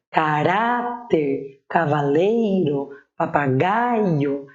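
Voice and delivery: caráter, cavaleiro, papagaio very slowly, stretching RÁ, LEI, GAI; stress on penultimate syllables. Shown as a demonstration. Teacher listing paroxytone examples, stretching RÁ, LEI, GAI in caráter, cavaleiro, papagaio. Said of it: "penúltima sílaba tônica é acentuada".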